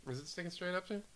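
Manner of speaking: breathy, hushed sultry voice; sultry perfume ad. Pretend. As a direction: purr it like a perfume ad. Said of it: "That sultry voice you're hearing is the speaker".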